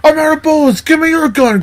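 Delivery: high, urgent acted shout; hammed-up frenzy; mock frantic excitement. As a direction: demand it like an overexcited cop. Plays overexcited cop grabbing gun.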